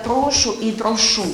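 "прошу" first with stress on the first syllable "ПРО-шу", then "прошу" with stress on the second "про-ШУ"; contrasting stress. Shown as a demonstration. Trainer showing officials the two stresses of "прошу", clearly contrasting. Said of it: "якщо наголос на перший склад".

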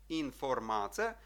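інформація slowly, every syllable given equal weight; syllable-by-syllable reading. Shown as a demonstration. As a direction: draw out інформація evenly, no reduced vowels. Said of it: "всі склади треба читати однаково". (повільно, рівно за складами: інформація)

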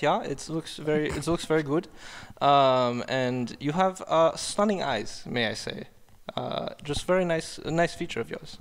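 lightly put-on German accent. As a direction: pay polite compliments in a German accent. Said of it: "give Jared a compliment in the German accent".

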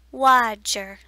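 put-on loud toddler lisp; little child voice. A narrator's reading. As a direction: say it like a proud toddler. Little child says bear name.

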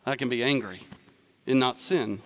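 imitating congregation's relieved sigh; mock relief. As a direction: savour the excuse with fake piety. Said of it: "Everybody's like".

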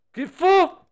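sudden high-pitched yelp of fright; startled shriek. Real, not acted. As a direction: jump and shriek mid-word. Startled by the game.

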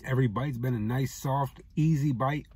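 talking while chewing; speaking between bites of food; mouth full. Real, not acted. Seen 2: bites wrap at 2.5-2.8, then talks with food in mouth.

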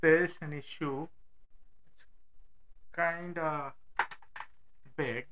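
muffled from inside a helmet; talking with a helmet on. Real, not acted. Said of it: "It would sound weird".

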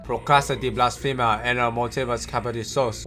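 fake Russian gibberish. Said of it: "Is it gonna be in Russian again?".

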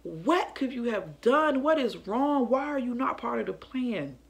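a touch of panic in the questioning; retold freak-out. Mother questioning child left out of the plan, mildly freaking out. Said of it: "I'm just freaking out like".

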